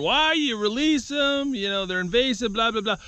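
whiny imitation of a critic; mock viewer voice. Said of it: "some guys out there are gonna be wondering".

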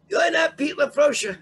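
high, loud, slow imitated yell; retold screaming. Witness retold correcting the man rising from his seat, screaming. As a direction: act out his scream, drawing the words out. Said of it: "he starts screaming".

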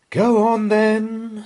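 slow, weary sigh of giving in. A narrator's reading. Mum giving in to her son, slow weary sigh. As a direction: let the words out on a tired breath. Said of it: "sighed Missus Large".

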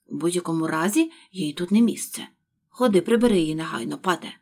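loud, fast order; angry command. Acted. Rabbit ordering Pat to remove it, loud angry.

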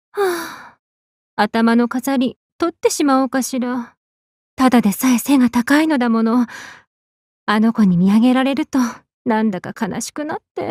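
sighing, low-spirited musing to oneself; downcast soliloquy. Acted. Alone, fretting over being too tall, downcast.

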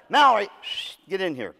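sharp call from the next room. Retold or imitated. Dad calls his daughter into the room, sharply. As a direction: summon her firmly.

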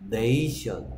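네이션 with a clear "ay" glide in 네이; teacher sounding out 네이션, falling at the end; pronunciation demo. Shown as a demonstration. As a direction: model the long A in 네이션 for the class. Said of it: "얘는 발음이 뭐라고?".

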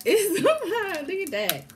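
slow, high laugh-filled words. Real, not acted. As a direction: stretch it out laughing. Laughing over the crab.

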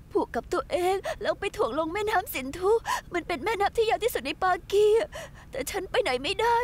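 a broken woman close to crying; tearful pleading. Acted. Heartbroken woman begging at the bar, tearful. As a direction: speak through tears, voice catching.

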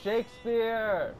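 slow, high theatrical call; dramatic announcement. Pretend. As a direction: proclaim the name grandly. Reads the name dramatically.

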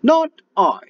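very high, loud yappy refusal; dog refusing. Acted. Lazy dog refusing the hen, very high loud voice. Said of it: "barked the dog".

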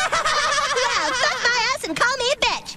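giggling through the line; laughing. Acted. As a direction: laugh the words out. Cartoon character laughing through insult.

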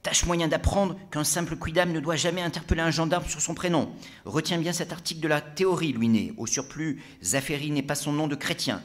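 high, loud scolding voice; stern brigadier. Acted. Brigadier scolding a drinker for using a first name, stern. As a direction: put the drinker in his place. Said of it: "Collet l'interrompit d'un geste".

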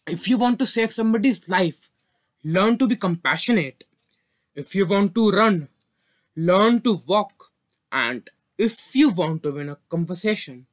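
measured, lightly declaimed verse; poem recitation. Acted. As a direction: recite each line with a pause before the answer. Recites her own poem.

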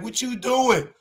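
lightly voiced confused girl. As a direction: pitch it up like the surprised young woman. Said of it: "the girl looked at me like".

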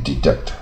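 "deduct" as dee-DUKT; pronunciation model. Shown as a demonstration. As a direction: say "deduct" with a short uh in the second syllable. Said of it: "不卷舌带而念deduct".

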